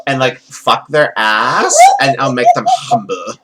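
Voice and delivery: lightly voiced Valley Girl with drawn-out threats; slow down the threats, a hint of Valley Girl; wrestler's promo in mild Valley Girl speak; Iron Sheik as Valley Girl. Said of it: "I just did Iron Sheik as a Valley Girl".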